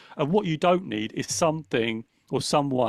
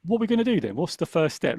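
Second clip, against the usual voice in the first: higher, upbeat coaching voice; pep yourself up like a keen coach; mildly bright self-coaching; encouraging inner voice; 4 semitones higher than usual. Retold or imitated. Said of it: "Now I get".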